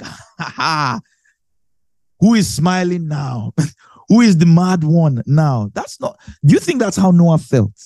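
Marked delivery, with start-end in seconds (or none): 0.0-5.7 hammed-up told-you-so laugh and taunt; mocking gloating laugh. Believer gloating over drowning people, mock laughing. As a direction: cackle at the drowning crowd, then jeer. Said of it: "you're like".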